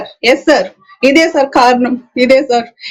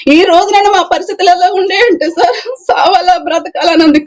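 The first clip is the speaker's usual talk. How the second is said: crying; 4 semitones higher than usual. Real, not acted. Victim describes wishing to die.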